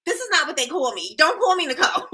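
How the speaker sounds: a mock protest that rises and breaks into laughter; play-protest, laughing at the end. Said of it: "I'm like".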